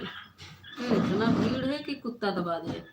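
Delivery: startled outburst about the crush of people; alarmed exclamation. Real, not acted. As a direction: blurt it out in shock. Exclaiming at crowd.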